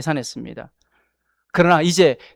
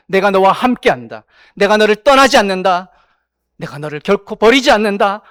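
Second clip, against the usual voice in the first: firm, louder voice of God; God's promise; 4 dB louder than usual. Acted. Preacher voicing God to reassure the congregation, firm and louder. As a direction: proclaim it as God's own promise. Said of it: "그러나 하나님 말씀하십니다".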